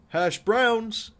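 light up at the food; delighted. Real, not acted. Spotting hash browns on the menu, delighted cry.

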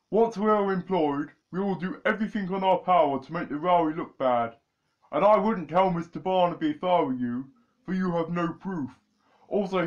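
lightly voiced sneering schemer; scheming villain. Villain brother reveals his plot to the boys, sly and sneering. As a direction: boast of the plan with a sly edge.

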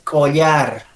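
slow "collar", falling at the end; "collar" stretched, LY sound; second LL option. Shown as a demonstration. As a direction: draw out collar as the other option. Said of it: "A ver, ¿cómo dices?".

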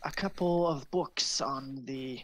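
lightly voiced old librarian wizard, half whispered at first; a hint of a vague old sage; elderly wizard.

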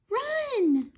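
high loud cry; urgent high shout; cried out. A narrator's reading.

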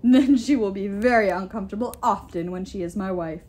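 gloating, emphatic giant voice; gloating giant king. A narrator's reading. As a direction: relish the threat, leaning on key words. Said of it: "Thrym chuckled".

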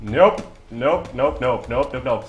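a touch of panic; panicked retreat. Real, not acted. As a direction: back off frantically. Fleeing danger.

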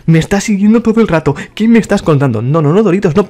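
annoyed outburst at the pest; exasperated. Real, not acted. Annoyed at follower, raised voice.

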